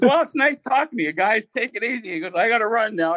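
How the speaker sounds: giggling imitation of a hasty goodbye; laughing through quote. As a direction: voice high and cracking with laughter.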